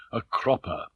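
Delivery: "a cropper" set apart and weighted; weighty word. A narrator's reading. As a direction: land "a cropper" after a long pause. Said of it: "to give full weight to the bizarre word".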